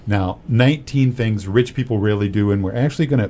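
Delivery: echoey voice, like a big hall; talking in a room that echoes. Real, not acted. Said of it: "boy, I sound really echoey in this".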